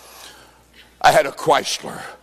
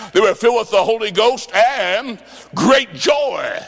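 preaching shout; 3 semitones higher than usual. Real, not acted. Preacher proclaims joy.

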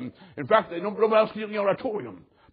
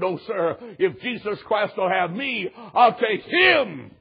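retold tearful voice; slower than usual. Woman at the altar answers the pastor, tearfully imitated. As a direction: build slowly into a drawn-out, mock-tearful declaration. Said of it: "In a weeping, tearful voice".

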